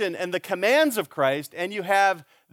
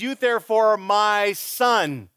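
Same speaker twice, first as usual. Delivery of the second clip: affectionate appeal; 4 semitones higher, 4 dB louder, slower than usual. Acted. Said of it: "He appeals to his affections".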